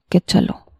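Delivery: whispered aside of relief; relieved whisper. Acted. Narrator thanks God inwardly, whispering in relief. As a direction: breathe it out under your breath, relieved.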